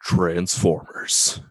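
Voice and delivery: deadpan trailer announcer; movie trailer voice. Acted. Parody trailer tagline.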